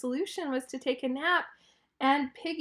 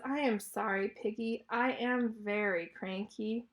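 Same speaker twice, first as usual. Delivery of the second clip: subdued apology; 2 semitones lower, 5 dB quieter than usual. Acted. Elephant says sorry to his friend for yelling, subdued apology.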